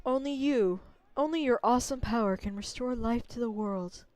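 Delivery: a gentle ancient spirit pleading; Sakuya voice. Acted. Voicing Sakuya again.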